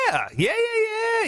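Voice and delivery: high, slow, shouted yeahs; excited shout. Real, not acted. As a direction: belt out the yeahs, pumped. Hyped reply to feeling good.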